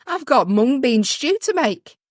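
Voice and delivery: laughing through a mock busy mum; giggling while speaking. Voicing mum, laughing mid-line.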